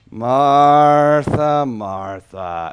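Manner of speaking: a long first Martha, then a low, soft second one; drawn-out soft calling. Shown as a demonstration. Preacher tries Jesus calling Martha gently, slow and soft. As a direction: call her name slowly and tenderly. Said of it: "Did he go".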